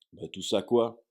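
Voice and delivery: puzzled. Acted. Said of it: "s'étonna Harry".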